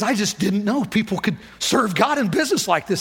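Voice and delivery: imitating a man overcome with emotion; retold tearful amazement. Bank president overwhelmed in the conference room, retold tearful. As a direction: haltingly voice someone moved to tears. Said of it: "crying in my conference room".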